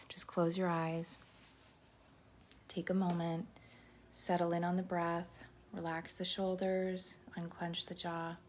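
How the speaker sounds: calm meditation voice with pauses between cues; guided meditation. Real, not acted. Teacher starting the silent sixty with viewers, calm guided meditation. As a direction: guide them to settle, softening toward the end.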